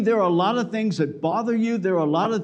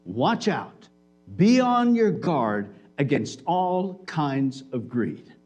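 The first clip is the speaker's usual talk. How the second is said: low, slow, solemn warning; grave warning; 5 semitones lower, slower than usual. Retold or imitated. Jesus warning the crowd about greed, low and slow. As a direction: lower the voice and slow down. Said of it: "he said to them".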